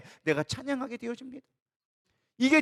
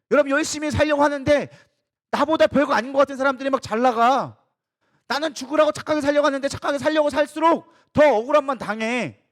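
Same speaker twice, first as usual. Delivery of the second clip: aggrieved outcry; 3 semitones higher, 5 dB louder than usual. Acted. Preacher voicing complaints of the faithful.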